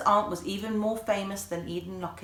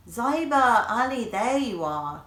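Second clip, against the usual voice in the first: warm voice; 5 semitones higher, 6 dB louder, slower than usual. A narrator's reading. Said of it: "came a warm voice from behind them".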